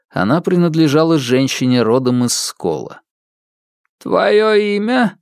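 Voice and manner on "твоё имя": very slow, high and cold; stern widow. Acted. Widow questions ghost.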